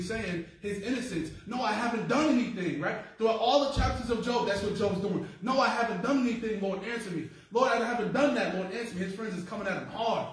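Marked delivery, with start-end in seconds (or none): 1.5-9.0 pleading Job. Acted. Voicing Job pleading to God.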